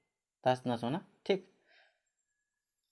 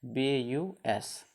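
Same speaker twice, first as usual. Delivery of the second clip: slow spelling; much slower than usual. Shown as a demonstration. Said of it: "जैसे".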